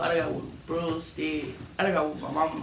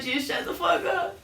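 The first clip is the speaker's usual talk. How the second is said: shout; 11 semitones higher than usual. Retold or imitated. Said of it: "I'm like".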